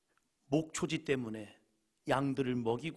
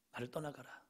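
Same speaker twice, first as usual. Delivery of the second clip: much softer, almost withdrawn; soft take; 9 dB quieter than usual. Shown as a demonstration. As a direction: say it quietly, pulling back. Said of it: "이게 아브라함의 본심입니까?". (훨씬 작고 조용하게 떠나가라)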